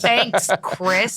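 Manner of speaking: amused, laughed-out thanks; laughing thanks. Real, not acted. Laughing thanks after awkward exchange.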